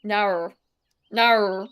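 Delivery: "no" bent towards Aussie "naur"; Australian accent attempt. Streamer practising the Australian "no", testing its vowel. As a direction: try a mock Australian "no". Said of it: "I need to put more R in it".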